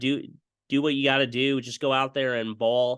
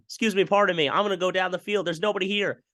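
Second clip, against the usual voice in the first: 1 cheeky runner voice; 6 semitones higher than usual. Pretend. Voicing the runner mid-play.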